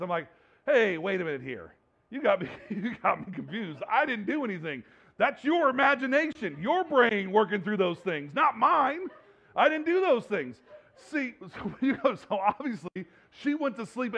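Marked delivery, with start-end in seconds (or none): 0.7-10.6 laughing protest. Retold or imitated. Husband protesting accusation from dream.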